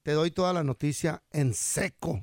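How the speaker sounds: mock anchor's sign-off; news teaser. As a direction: promise the story like a newscaster.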